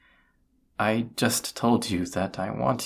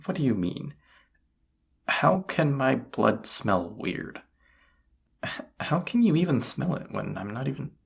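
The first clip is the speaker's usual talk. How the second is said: rattled, higher and louder, defensive; flustered denial; 3 semitones higher, 5 dB louder than usual. Acted. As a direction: protest as if caught with a secret. Caught out, denying a crush.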